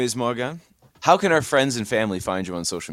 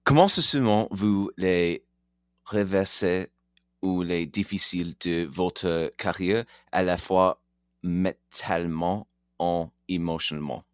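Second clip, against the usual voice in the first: English speaker's accent in French; halting French with an English accent; foreign accent in french; 2 semitones lower than usual. Real, not acted. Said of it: "pardonnez-moi mon français".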